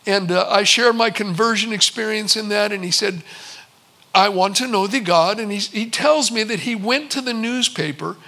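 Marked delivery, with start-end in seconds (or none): 4.2-5.4 imitated Indian-accented English. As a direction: lightly put on an Indian accent. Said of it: "in a very thick Indian accent".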